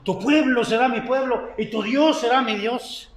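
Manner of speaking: imitating a bride or groom's vows; acted wedding vow. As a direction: recite it like a solemn pledge at the altar. Recites a wedding vow from Ruth.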